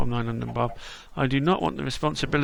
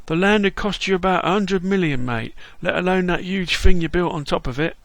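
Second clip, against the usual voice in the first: lightly voiced cheery London geezer, a bit higher; London Bob; 4 semitones higher, 5 dB louder than usual. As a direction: greet him like a chirpy London mate.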